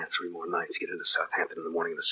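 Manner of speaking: hushed whisper. Real, not acted. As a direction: whisper so nobody overhears. Secret lovers talking alone.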